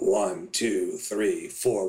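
hoarse, raspy, breathy, strained voice. Demonstrating a warning-sign voice while counting: hoarse, raspy, strained. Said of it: "where you get kind of a hoarse, raspy, kind of breathy, strained voice".

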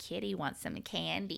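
soft, creaky cat yowl shaped into words. Showing the other speaker, who asked, how a yowling cat sounded: imitating a yowling cat. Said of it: "it sounded a little bit like this".

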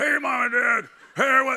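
high-pitched cartoon sailor character voice. Retelling how a three-year-old talked around the house: Popeye voice. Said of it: "talking like Popeye the Sailor Man".

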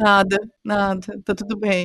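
play-acted low, slow, deflated, beaten-down voice. Retelling a phone call after work, she acts out her own reply: imitating a defeated voice. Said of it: "Aquela voz de derrotado".

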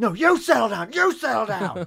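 very loud, very high-pitched shout. A co-host shouts back after being told to settle down, shouting. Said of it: "stop shouting at me".

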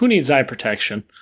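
normal talking voice

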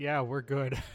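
loud shouted yell. A player's character calls back to the party, yelling back. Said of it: "Call back and yell".

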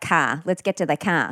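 put-on Boston accent. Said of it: "even the Boston accent".

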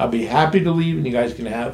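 ordinary talk, nothing marked

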